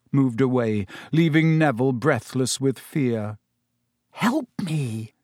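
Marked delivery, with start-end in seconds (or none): 4.1-5.1 plaintive, slightly softened plea; moaning. A narrator's reading. Frightened pupil to his classmate, moaned plea. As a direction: moan for help in dread. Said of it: "he moaned to Hermione".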